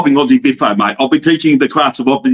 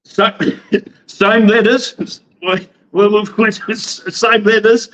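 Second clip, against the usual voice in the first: higher, drawn-out words breaking into laughs; amused, laughing hint; 6 semitones higher, slower than usual. Real, not acted. Guest teases host about the rival company's name, laughing. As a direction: drag out the clue, then crack up.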